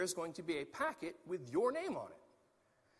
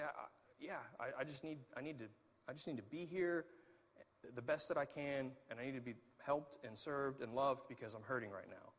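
hurting plea; 5 semitones lower, 6 dB quieter than usual. Pretend. Voicing a hurting member asking.

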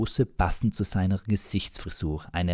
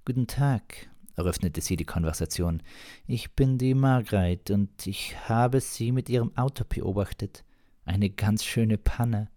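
higher, chatty woman's voice; 4 semitones higher than usual. Acted. Margret chatting to the stranded driver, higher chatty voice. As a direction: chat up the stranger in a high friendly voice.

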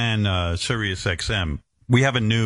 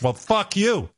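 high mock retort; 11 semitones higher than usual. The executives swearing back in a mock retort. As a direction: hurl it back at him. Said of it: "And they're like".

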